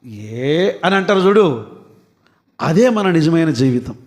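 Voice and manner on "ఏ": low, soft dismissive "ఏ"; low, quiet sneer of disbelief; scornful inner scoff. Retold or imitated. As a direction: scoff at the praise under your breath. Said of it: "కానీ లోపల".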